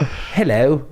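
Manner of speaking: half-hearted attempt at a British accent; crappy British accent. Shown as a demonstration. Traveler imitating the girl's English hello, crappy British accent. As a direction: have a reluctant go at British, badly. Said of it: "sounds like a crappy British accent".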